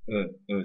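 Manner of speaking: "E, e" as neutral unstressed vowels; weak syllable. Shown as a demonstration. Teacher showing a weak syllable, "e" left unstressed. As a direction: keep each "e" weak and indistinct. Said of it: "c'est une syllabe qui est faible".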